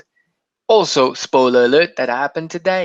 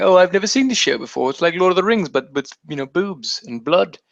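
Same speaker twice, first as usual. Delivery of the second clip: clueless show watcher; 4 semitones higher than usual. Acted. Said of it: "I was the guy who was watching".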